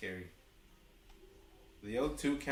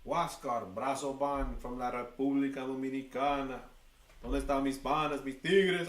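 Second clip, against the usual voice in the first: hyped announcer; 4 dB louder than usual. Acted. Hyping the Dominican pitcher.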